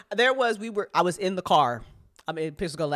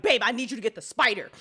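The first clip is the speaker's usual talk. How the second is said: insistent, louder repeat of the plea; urgent plea; 5 semitones higher, 3 dB louder than usual. Retold or imitated. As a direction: press her, more urgent now. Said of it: "I'm like".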